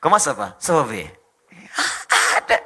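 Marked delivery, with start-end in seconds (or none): 0.0-1.1 loud mock-French greeting; French accent. Showing Indonesians can sound French, loud mock French accent. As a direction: imitate a French speaker. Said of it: "kayak orang Prancis".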